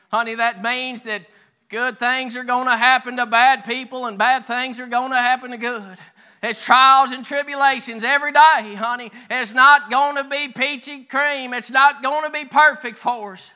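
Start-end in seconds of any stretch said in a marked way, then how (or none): 1.7-13.5 moderately raised preaching voice. Real, not acted. Preacher warning congregation of trials, preaching firmly. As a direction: push each phrase out with conviction.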